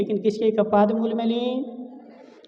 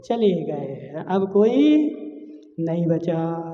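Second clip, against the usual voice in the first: slow, lower, mildly acted grief; forlorn lament; 5 semitones lower, slower than usual. Mother left with nobody, subdued mock lament. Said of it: "रोते रोते क्या बोल रही है".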